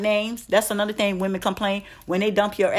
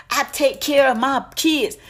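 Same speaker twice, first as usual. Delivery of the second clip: mocking a bragging dad; 6 semitones higher, 4 dB louder than usual. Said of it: "You don't throw that in her face".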